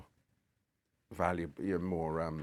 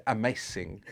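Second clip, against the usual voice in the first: "amazing" with an Italian lilt; Italian accent. Shown as a demonstration. Demonstrating the few words known, Italian accent. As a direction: put on Italian-accented English for one word. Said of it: "I can do".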